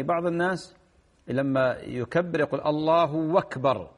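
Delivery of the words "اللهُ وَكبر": "الله أكبر" run together slowly as allaahuu-wakbar; over-filled damma. Shown as a demonstration. Sheikh mimicking some people's mistake, over-filled damma. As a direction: turn the u into a w, dropping the hamza of akbar. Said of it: "يشبع الضمة".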